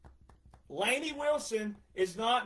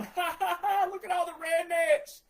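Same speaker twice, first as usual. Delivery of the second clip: mocking laugh; 8 semitones higher than usual. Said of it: "sitting back going".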